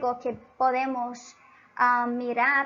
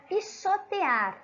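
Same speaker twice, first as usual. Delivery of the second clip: slowly spelled out; 5 semitones higher, slower than usual. Shown as a demonstration. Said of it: "la palabra".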